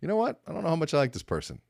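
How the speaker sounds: high, quick sceptical aside; mock doubt. Someone sizing up a person they dislike, high mock doubt. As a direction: raise your pitch in playful distaste. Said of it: "you go".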